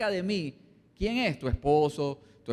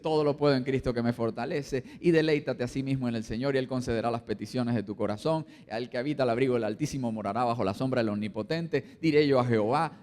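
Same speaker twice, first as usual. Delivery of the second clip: lower, measured scripture recitation; reciting scripture; 7 semitones lower than usual. Retold or imitated. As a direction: recite the verses from memory, lower and steady. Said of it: "comienzas tú a recitar la palabra".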